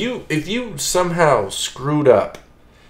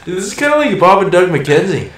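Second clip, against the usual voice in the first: hammed-up Canadian accent, a bit higher; lightly done Canadian accent over beer; 6 semitones higher, 4 dB louder than usual. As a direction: play the stereotypical Canadian, eh. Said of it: "start talking like a real Canadian".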